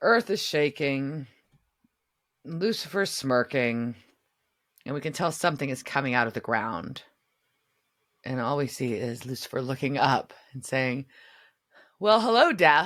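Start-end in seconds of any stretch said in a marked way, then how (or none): 12.0-12.9 bold, loud voice pitched up high. Retelling a scene where Lucifer greets Death: imitating Lucifer's greeting. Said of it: "Like the way you said it".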